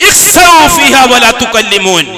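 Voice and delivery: slow, firm verse rising in force; stern divine command. Acted. God rebuking the sinners, recited slow and firm. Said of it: "അല്ലാഹു തആല പറഞ്ഞ വാക്കെന്താ".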